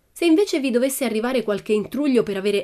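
high, projected parting shout; calling out. A narrator's reading. Pippi from the door to the shopkeeper, calling out high. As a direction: call it back across the shop. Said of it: "si arrestò e gridò".

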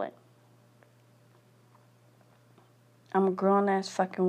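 venting fury with hard punched curses; bitter angry rant. Real, not acted. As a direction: spit out every curse at the world. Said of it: "I am so mad".

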